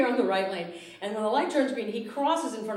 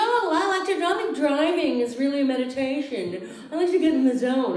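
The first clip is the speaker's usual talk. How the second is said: high, airy mock meditation talk; mocking a calm driver; 4 semitones higher than usual. Mocking Portland drivers, a high airy zen voice. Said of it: "people go".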